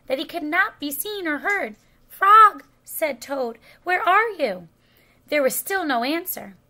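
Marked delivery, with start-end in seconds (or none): 2.1-2.6 high, very loud call. A narrator's reading. Toad calls for unseen Frog, calling out. 3.8-4.7 raised, higher searching call. A narrator's reading. Toad looks for unseen Frog, calling out.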